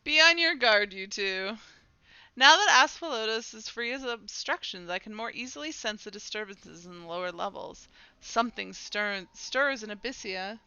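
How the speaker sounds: measured game-character delivery, firm openings; dramatic dialogue reading. Acted. Character warns companions of stirrings below, dramatic reading. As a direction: read it as a solemn warning.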